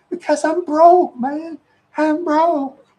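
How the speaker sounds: high, drawn-out mock holler; retold loud protest. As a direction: cry poverty at the top of your voice. Retold protest of being broke.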